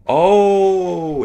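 sudden high yelp of fright; startled yelp. Real, not acted. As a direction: jump and yelp loud. Jumpscare in horror game.

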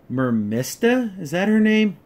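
ordinary delivery

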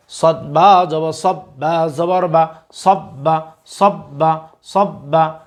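teacher's recitation, letter by letter; slow spelling drill. Shown as a demonstration. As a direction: spell each letter slowly, then say the word thrice. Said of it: "আপনারা আমাদের সাথে repeat করার চেষ্টা করুন". (ধীরে বানান করে তিনবার উচ্চারণ)

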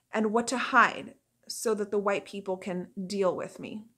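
measured monologue delivery with deliberate pauses; dramatic monologue reading. Acted. Haitian American Sin introducing herself, dramatic monologue reading. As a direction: perform it as an audition piece, phrase by phrase.

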